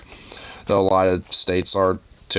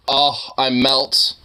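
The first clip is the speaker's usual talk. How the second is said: melting coo; 3 semitones higher, much slower than usual. Real, not acted. Cute cat picture.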